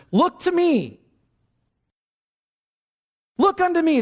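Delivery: put-on old lay preacher pleading from the pulpit; imitating the old preacher. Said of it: "I remember how he said it".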